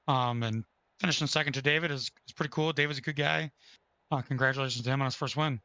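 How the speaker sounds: raspy, worn-out voice; hoarse voice. Real, not acted. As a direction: talk through a lost voice. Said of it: "I wish I sounded better. I sound like crap".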